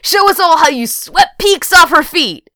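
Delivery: high, loud heckling demand; yelling. A narrator's reading. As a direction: call it out across the table. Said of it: "Andy yelled to Johnny".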